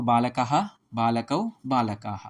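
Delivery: slow, deliberate chanting of forms; slow recitation. Shown as a demonstration. Teacher reciting Sanskrit noun forms to students, slowly. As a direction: spell out each form slowly for students.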